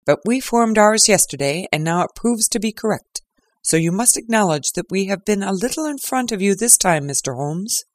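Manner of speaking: lightly voiced smug crowing; triumphant Lestrade. Lestrade gloating to Holmes, lightly voiced triumph. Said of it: "his manner grossly triumphant".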